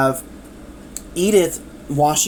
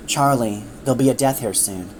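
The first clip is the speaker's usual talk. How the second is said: put-on tired older maid; 6 semitones lower than usual. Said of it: "becomes a bit older and a, like, very tired looking".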